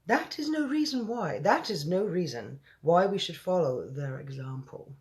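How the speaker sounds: put-on a lightly English-accented queen; mild royal English accent; Queen's English accent. The Queen rejects the army head's argument, lightly English-accented. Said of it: "I have to do the Queen's voice".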